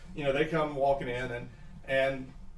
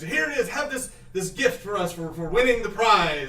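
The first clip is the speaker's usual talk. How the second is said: higher, friendly presenter voice; lightly voiced gnome elder; 5 semitones higher, 4 dB louder than usual. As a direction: hand over the prize proudly. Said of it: "they give this".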